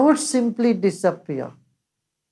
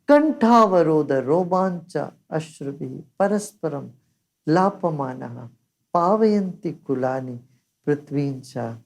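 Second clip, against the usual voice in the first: Sanskrit verse recitation; 3 semitones lower than usual. Acted.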